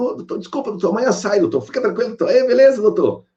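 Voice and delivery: high, eager yes-sir voice of simple workers; humble worker. Retold or imitated. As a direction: play the meek labourer, pitch up high. Workers making excuses to boss.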